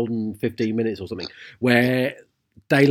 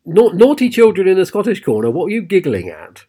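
mock teacher; 7 semitones higher, 4 dB louder than usual. Teacher scolding giggling colleagues.

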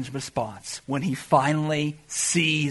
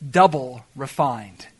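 savoring slowly; 6 semitones lower, slower than usual. Shown as a demonstration. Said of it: "I love that, double refined".

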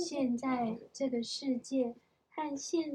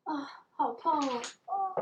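real startled cry of pain; pained exclamation; 5 semitones higher, 4 dB louder than usual. Real, not acted. Reader fallen with the child during story time, pained exclamation. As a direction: yelp "ow" after a tumble.

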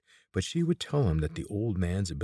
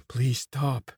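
a pained, breathless plea, higher and louder; gasped plea; 6 semitones higher, 5 dB louder than usual. A narrator's reading. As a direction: beg through the pain, gasping. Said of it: "she gasped".

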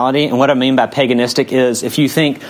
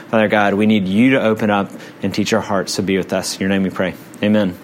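prayer; 3 semitones lower than usual. Acted. Leads congregation in prayer.

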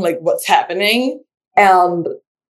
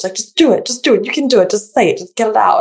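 تقليد خفيف لمدرب رياضي يشجع; أعلى قليلا، حماس مدرب مصطنع; imitating a coach; 4 semitones higher, faster than usual. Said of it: "just like the coach".

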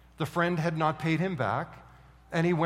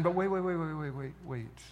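slowing down; 7 dB quieter than usual. Acted. Preacher halts crowd's anger.

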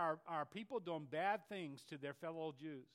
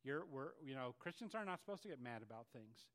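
hint of a sanctimonious tut-tut; mock pious voice; 5 semitones lower, 5 dB quieter than usual. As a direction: lower and softer, a prim church voice. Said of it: "we're like".

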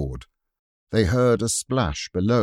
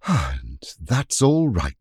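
relieved; slower than usual. Acted. Relief after the siege.

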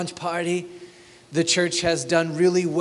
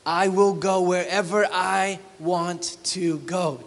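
higher mock swagger; arrogant boast; 3 semitones higher than usual. Pastor mocks a traveling merchant, smug. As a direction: boast smugly, lightly hammed. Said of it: "Do you feel it?".

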